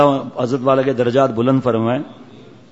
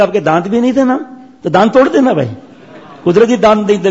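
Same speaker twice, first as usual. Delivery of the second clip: mock teasing; 5 semitones higher, faster than usual. Elder mocks youth's logic.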